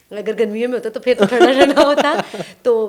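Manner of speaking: laughing through a nervous joke. Real, not acted. Guest jokes with the host about her nerves, laughing.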